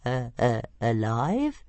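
high little dragon, keen; squeaky eager question; Toothless eager. Acted. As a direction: perk up at the offer. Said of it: "he said eagerly".

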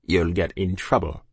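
low-pitched comrade's caution; warning soldier. A narrator's reading. Soldier warning Charlie off the child, low. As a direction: drop low and warn him off.

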